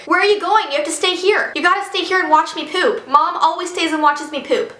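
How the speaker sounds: a hint of a bossy six-year-old; lightly voiced demanding child. Girl ordering babysitter to stay, mildly imitated bossy child. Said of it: "And she's like".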